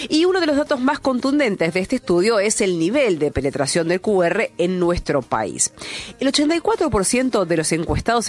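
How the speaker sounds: measured radio news reading. Acted. Radio host reads a fintech report to listeners, news read.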